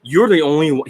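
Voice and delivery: mock a defensive seller turning down a customer; blame-shifting coach. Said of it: "This is what he says".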